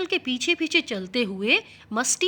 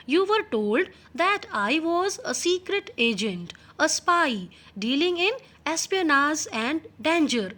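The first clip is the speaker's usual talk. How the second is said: reading the English text slowly and clearly; 3 semitones higher, much slower than usual. Shown as a demonstration. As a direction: read each word out slowly for the class. Teacher reads English text aloud. (धीमी आवाज़ में पाठ पढ़ना)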